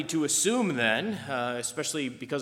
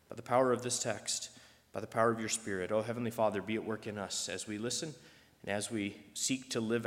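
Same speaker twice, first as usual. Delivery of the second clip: prayer. Acted. Pastor leads closing prayer.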